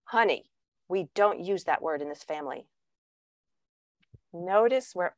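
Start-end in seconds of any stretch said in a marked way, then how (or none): 0.0-2.7 softer, lower, prim correction; patronizing partner. Retold or imitated. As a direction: gently chide about the swearing. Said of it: "the first thing your partner says to you is".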